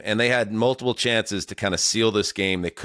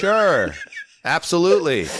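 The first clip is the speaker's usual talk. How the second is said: higher and louder, gushing yes; mock eager woman; 7 semitones higher, 3 dB louder than usual. Host voicing a woman eagerly accepting Charlie Smith, higher mock gush. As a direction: play the swooning woman saying yes.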